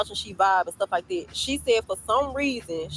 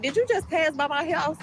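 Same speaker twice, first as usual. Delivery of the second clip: retold incredulous question; 8 semitones higher than usual. Retold confronting phone question.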